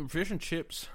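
put-on a light British accent, half-hearted. Co-host asks for fish and chips in a British accent, lightly done. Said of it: "You need to get a little British accent going".

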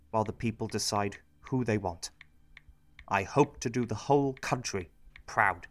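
measured press statement voice; formal statement. Acted. New MP addressing the country in a formal speech. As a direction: address the nation with grave dignity. Public statement after Duncan resigns.

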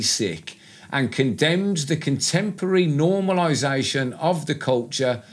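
measured article read-out; careful reading from a written piece; reading aloud. Real, not acted. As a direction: read the quoted article out deliberately.

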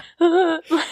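high mock gasp of a crier; choking inhale. Shown as a demonstration. Showing the crying she doesn't do, choking gasp. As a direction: imitate a choked, gasping intake of breath. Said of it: "inhaling and, like, choking".

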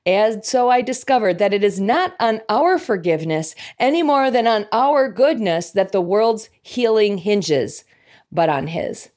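savoured, slow reading. Shown as a demonstration. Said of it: "And I love this phrase".

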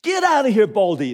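loud, high taunting jeer; mock the bald prophet like a brat; jeering boys. A narrator's reading. Boys jeering at the prophet, loud taunt. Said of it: "jeered at him".

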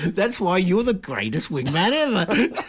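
slow words through laughter; laughing. Real, not acted. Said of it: "that one wasn't sarcasm".

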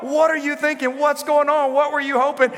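high, loud but correcting herself; imitating calmer questions. Preacher imitating herself switching to asking her kids what. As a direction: catch yourself and ask what instead. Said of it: "And I was like".

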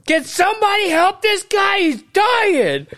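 high, wailing appeal; mock screaming. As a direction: scream for help like a hammy actor. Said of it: "So I scream again".

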